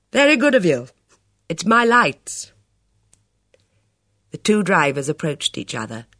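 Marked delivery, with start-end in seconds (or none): 0.1-2.5 put-on elderly man voice. Old man voiced in story.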